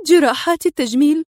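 rising pitch as worry takes hold; worried question. A narrator's reading. Woman fearing for her injured face, anxious murmured question. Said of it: "مغمغمة".

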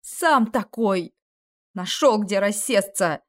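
slow, sobbing retort; a hint of fury held back by tears; mild angry shout. Kes snaps back at the demon, slowly, fighting tears. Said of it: "Не менее яростно закричала на него Кэс".

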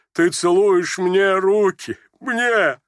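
high, slow, incredulous question; moved amazement. A narrator's reading. Moved father asks in wonder. (растроганное изумление старого отца)

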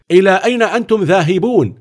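high, loud challenge from a guard; stern sentry calling out; guard shouting. Acted. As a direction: bark the question at the intruders. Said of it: "وهو يهتف".

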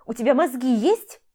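loud, high, exasperated scold; shouted disbelief at a reckless fool; furious yell. Acted. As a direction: tear into him for being an idiot. She scolds reckless Kostya.

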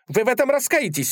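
high, fast indignant challenge; a duelist's affronted threat, rising sharply; small fencer snapping a fast high warning. Acted. Duel challenge, raised voice.

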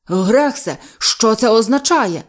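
loud, slow angry demand; накинувся. A narrator's reading. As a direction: pounce on him for an explanation. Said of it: "накинувся на нього сер Чарльз". (сердито, гучно вимагає пояснень)

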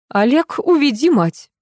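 put-on old matriarch ordering her grandson, stern order. A narrator's reading. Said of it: "приказала старуха".

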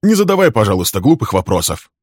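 father brushing off his son's question, annoyed; irritated snap. Acted. Father snaps at son.

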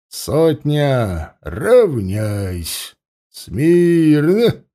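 sharp parade-ground commands, Smirno loudest; shouting drill sergeant. Acted. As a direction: bark orders at the troop. Commander drills the lined-up troop.

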